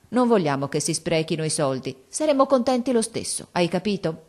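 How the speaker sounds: lightly voiced girl, pleading a little; a hint of a determined daughter; earnest young girl. Lightly voiced girl earnestly telling her mother.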